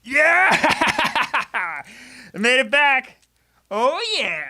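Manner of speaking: real excited yell; victory yell. Real, not acted. Celebrating a win in game.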